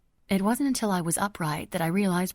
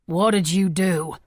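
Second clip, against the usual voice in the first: horrified; 8 dB louder than usual. A narrator's reading. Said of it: "sounding horrified".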